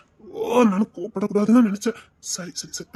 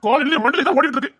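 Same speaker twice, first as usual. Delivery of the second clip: raised, higher, heated complaint; angry; 6 semitones higher than usual. Acted. Husband scolding his wife for avoiding him, angry. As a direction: vent the frustration hotly. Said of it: "எதுக்கு நீங்க கோவப்படுறீங்க?".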